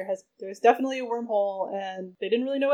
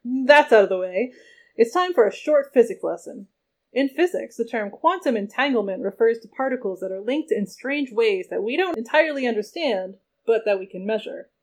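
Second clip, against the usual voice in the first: a touch louder, hyped presenter; overly enthusiastic; 6 dB louder than usual. Acted. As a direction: sell it like a peppy training video. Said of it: "Mark spoke only in exclamation points".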